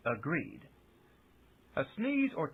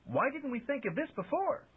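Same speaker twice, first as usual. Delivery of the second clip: bellowed; 12 semitones higher than usual. A narrator's reading. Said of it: "he bellowed".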